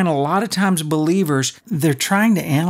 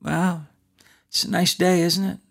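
put-on soft, unhurried old man voice; relaxed old man; 3 semitones higher, 3 dB quieter than usual. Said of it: "he's like".

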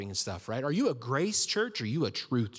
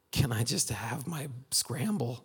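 laughing plea. Retold or imitated. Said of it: "I'm going".

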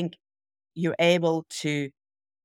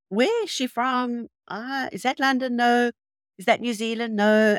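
higher-pitched mimicry of curious listeners wondering; puzzled guessing; 7 semitones higher than usual. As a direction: imitate listeners guessing and ruling out each place. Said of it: "trying to figure out where I'm from".

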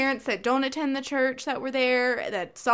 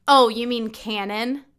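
mocking girl; 7 dB louder than usual. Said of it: "I heard her say".

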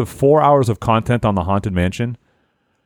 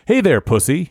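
booming dad voice; 5 semitones higher than usual. Acted. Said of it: "he said with a booming dad voice".

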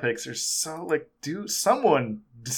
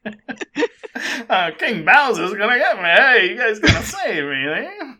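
high, sweet fairy tale princess; Princess Toadstool voice; 9 semitones higher, 8 dB louder than usual. Retold or imitated. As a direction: squeak like a helpless princess. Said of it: "Princess Toadstool's voice".

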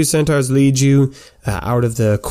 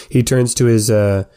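normal talking voice

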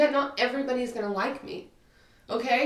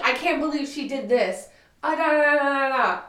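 raised, louder blah-blah of a rant; mimicked rant; 4 semitones higher, 3 dB louder than usual. Venting about a friend who pissed her off, mimicked rant. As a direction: rattle off wordless complaints.

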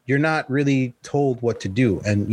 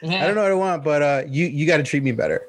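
mock whiny voice; 3 semitones higher than usual. Repeats the mocking quote.

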